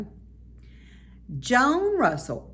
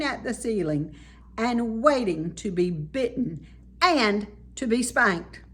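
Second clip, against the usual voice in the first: loud voice; 5 dB louder than usual. Acted. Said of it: "he added in a loud voice".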